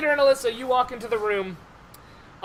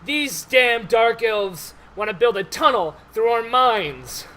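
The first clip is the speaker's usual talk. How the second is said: a hint of slow, grumbling dwarf; lightly voiced dwarf; slower than usual. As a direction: complain slowly in a mild dwarf voice. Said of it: "one of the dwarves turns around and says to you".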